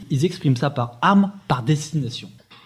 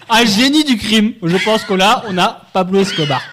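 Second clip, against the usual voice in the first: sarcastic; 3 semitones higher, 5 dB louder than usual. Real, not acted. Mocking the clumsy offender.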